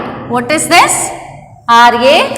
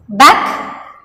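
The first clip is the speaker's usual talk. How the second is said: word-by-word model reading; much slower than usual. Shown as a demonstration. Teacher lets children find the odd word, word-by-word model reading. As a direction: say back, pack, duck, sack one at a time. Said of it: "repeat after me".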